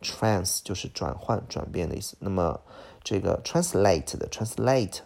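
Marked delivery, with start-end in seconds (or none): 3.4-4.2 translate as trans-LATE; stress on second syllable. Shown as a demonstration. Teacher pointing out stress at the back, translate as trans-LATE. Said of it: "重音在后边啊".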